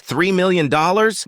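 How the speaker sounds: slow, high, loud disbelief; shocked. A narrator's reading. Max hearing the car's price, shocked. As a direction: echo the figure in shock, drawn out and rising. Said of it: "Max, shocked".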